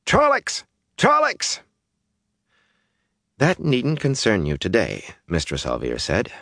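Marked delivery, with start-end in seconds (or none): 0.0-1.6 very high-pitched alarm calls; echoed cry. A narrator's reading. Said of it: "echoed by a dozen voices". 3.4-5.0 higher-pitched firm reassurance; firm and soothing. A narrator's reading. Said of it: "firm and soothing at the same time".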